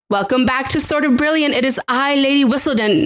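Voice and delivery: put-on British accent, theatrical introduction; Lady Whistledown. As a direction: announce yourself grandly in a British accent. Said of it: "I kind of lost the accent".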